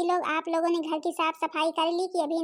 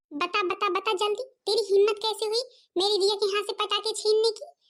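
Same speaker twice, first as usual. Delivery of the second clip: higher-pitched scolding, not shouted; acted indignant interrogation; angry demand; 4 semitones higher than usual. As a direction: confront them, pitch climbing as you demand an answer. Acted quarrel, demanding an answer.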